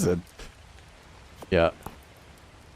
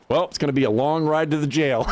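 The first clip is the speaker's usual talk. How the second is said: laughing; 5 semitones higher than usual. Retold or imitated. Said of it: "he's like".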